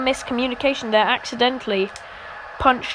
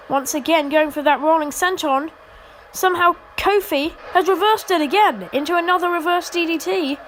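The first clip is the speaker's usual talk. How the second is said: wrestling commentator; 4 semitones higher than usual. Real, not acted. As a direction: call the action with rising hype. Hyped play-by-play during a comeback.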